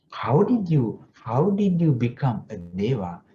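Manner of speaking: mildly amazed questioning, starting high. Acted. Father questions his son turned deva, mildly amazed. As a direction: ask in astonishment, lightly acted. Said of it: "That man was super, like, amazed".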